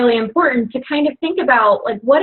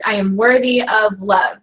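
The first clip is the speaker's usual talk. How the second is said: heartfelt, slow. Real, not acted. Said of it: "the last sentence is what, like, gets me the most".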